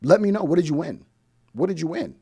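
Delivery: insistent repeated challenge; challenging. Real, not acted. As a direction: demand an answer.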